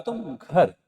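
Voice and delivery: "घर" dropped in pitch. Shown as a demonstration. Teacher breaks down the example, lowering the tone on "घर". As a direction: let the tune fall on "घर". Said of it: "घर में हम सुर को नीचे ले गए".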